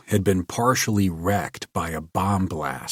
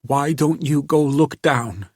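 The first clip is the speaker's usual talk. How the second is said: hysterical giggle; 7 semitones higher, 4 dB louder than usual. A narrator's reading. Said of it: "She giggled hysterically".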